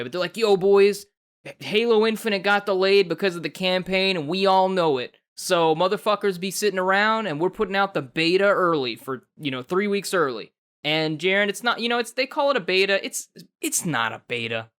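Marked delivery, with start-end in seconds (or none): 0.4-10.5 casual bro voice. Retold or imitated. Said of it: "they didn't say it this way".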